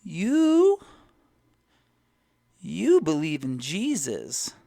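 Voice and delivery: high, loud, drawn-out old lady impression; funny-talking old lady. Gym lady asks a stranger about Jesus, hammed-up old lady voice. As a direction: stretch it out high like an eccentric old woman. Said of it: "she talks funny".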